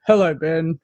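lightly imitated deep male greeting; deep voice impression. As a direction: attempt a man's deep, low hello. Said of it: "my best impression of, like, a deep".

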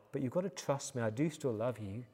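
soft, tender fatherly voice; lightly voiced loving father, hushed; gentle reassurance. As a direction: reassure a child quietly. Father reassuring his sobbing daughter.

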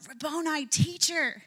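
a woman recognizing her risen teacher, calling out gladly. Acted. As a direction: call out in joyful recognition. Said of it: "she calls out".

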